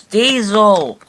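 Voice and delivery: high, loud call of a name. A narrator's reading. The coaches call out to speeding Diesel, high and loud. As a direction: shout his name up high. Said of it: "puffed Annie and Clarabelle".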